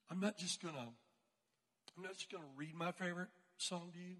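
low, halting, understated; hesitant quiet girl. Retold or imitated. Classmate standing before the class, hesitant and subdued. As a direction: hesitate softly before committing.

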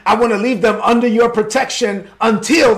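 pleading shout. Acted. David pleads with the king.

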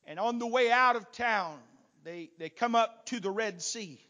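ordinary talk, nothing marked

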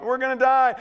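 a quick touch of mock alarm; mock panic. Preacher voicing disciples as the storm comes up, mild panic.

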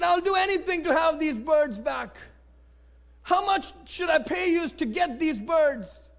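high, urgent acted plea; desperate bargaining, voice lifted in pitch; pleading. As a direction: beg to have them back. Pastor pleads to buy birds back.

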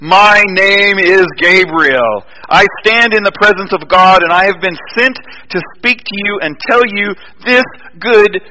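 lightly voiced ominous angel, slow and weighty; booming angel. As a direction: pronounce it slowly like a mighty messenger. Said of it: "this really deep booming voice".

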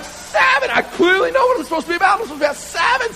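high, loud, fast desperate insisting; frantic yell. Retold or imitated. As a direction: shout at your own arms. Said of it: "hears all this screaming".

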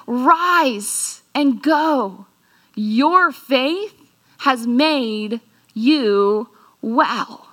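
slow, tender blessing; gentle Jesus. Acted. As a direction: bless him gently, unhurried. Preacher voices Jesus healing leper.

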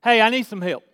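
easy, direct request at ordinary volume; just ask, without straining; simple asking. Shown as a demonstration. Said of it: "That's asking".

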